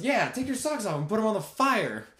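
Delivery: high, loud shout; friend joining in. Retold or imitated. Zach's wife joining in at the campfire, high and loud. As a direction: yell along, egging him on. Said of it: "And she goes".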